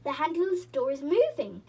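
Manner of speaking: loud urgent warning; yelled alarm. A narrator's reading. Moonface warns everyone the handle moves, loud yell. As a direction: call out the danger. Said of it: "yelled Moonface".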